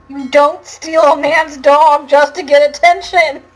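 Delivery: laughing. Real, not acted. Laughing at the dog theft.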